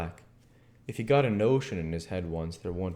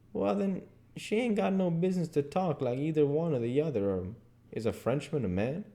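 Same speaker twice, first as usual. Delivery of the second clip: lightly voiced dialect argument; Jim, reasoning; 7 semitones higher than usual. Jim turns Huck's cat logic round, reasoning. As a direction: build the counter-argument in dialect.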